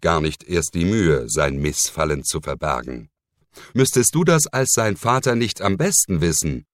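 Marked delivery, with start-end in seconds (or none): 3.7-6.7 sharp reproachful question, pitched up; snapping at him. Acted. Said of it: "fuhr er den Inquisitor an". (scharf anfahrend)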